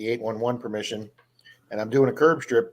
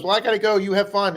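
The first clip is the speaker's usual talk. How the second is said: higher voice imitating the lady; lightly acted, high-pitched farewell; lady's goodbye; 7 semitones higher, 3 dB louder than usual. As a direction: sign off as the amused lady, pitched up. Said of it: "she laughed and she goes".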